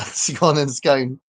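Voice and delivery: "scone" said both ways, rhyming with gone and with bone; two scone pronunciations. Shown as a demonstration. Quizzing viewers on British accents, slowly contrasting two ways to say "scone". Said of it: "being able to tell British accents".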